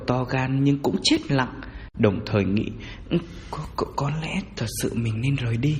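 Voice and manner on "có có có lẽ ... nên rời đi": hesitant, stuttering inner thought; nervous stammer. Acted. Grave robber thinking to himself he should leave, nervous stammer. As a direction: stumble over the first word in fright. Scared man thinks of leaving.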